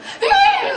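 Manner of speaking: high, loud imitated wail; weird noise. Teacher imitating a student's weird crying noise. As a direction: let out a weird high cry. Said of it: "some weird noise".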